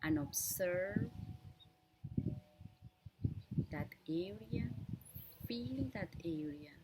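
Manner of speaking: unhurried meditation guide with long pauses; measured instructions in short, spaced-out phrases; guided meditation. Real, not acted. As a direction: guide listeners gently through breath awareness, leaving lots of space. Leads a breathing meditation.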